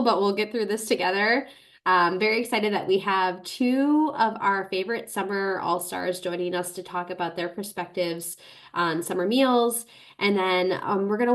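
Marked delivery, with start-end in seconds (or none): 0.0-9.9 speaking through a head cold; congested, blocked-nose voice; stuffy nose. Real, not acted. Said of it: "I am getting over a cold, so apologies if I sound awful".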